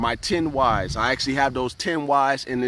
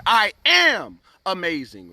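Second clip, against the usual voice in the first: confident declaration; 4 semitones higher, 3 dB louder than usual. Shown as a demonstration. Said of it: "when you say it like that".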